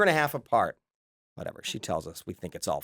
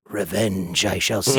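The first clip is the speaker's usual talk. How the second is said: slow, lower mock-villain voice; vindictive brother; 5 semitones lower, slower than usual. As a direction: vow it slowly like a cartoon schemer. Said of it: "My brother Chris was very vindictive".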